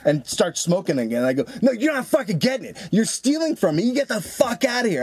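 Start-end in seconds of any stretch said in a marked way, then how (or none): 1.6-5.0 high-pitched mock yell, no real volume; raised-pitch, half-volume shouting; retold yelling. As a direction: re-enact yelling at a thief. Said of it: "I started yelling really loud".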